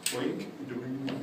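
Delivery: imitated boing; spoken spring noise. Shown as a demonstration. Clown pretending to fix the broken prop, imitated boing. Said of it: "or whatever, however you wanna make it".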